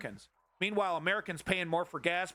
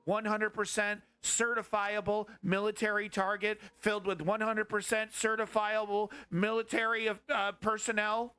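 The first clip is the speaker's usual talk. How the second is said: whiny, hesitant mock of a timid president; lightly voiced scared politician; mock Biden voice; 3 semitones higher than usual. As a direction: sneer through a weak leader's excuses. Mocking Biden's timid reasoning.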